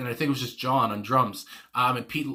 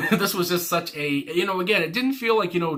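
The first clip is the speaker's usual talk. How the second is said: laughing; 6 semitones higher, 4 dB louder than usual. Real, not acted. Giddy laugh after song ends.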